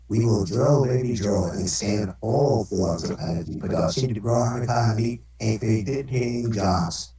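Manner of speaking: voice changer. Pretend. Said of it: "voice changer for Donald Trump".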